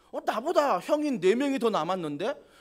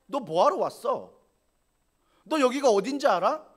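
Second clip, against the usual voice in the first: mocking; 2 semitones higher, 4 dB louder than usual. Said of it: "막 조롱하는 거죠".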